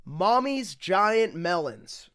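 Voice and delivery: slow breathless whisper of the title. Shown as a demonstration. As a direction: hush it like a secret. Title whispered after plain read.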